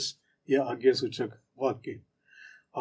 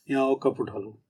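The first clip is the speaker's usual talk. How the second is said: casual friendly request; 3 dB quieter than usual. Shown as a demonstration. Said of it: "सब बैठे हुए हैं, चाय वाय पी ली".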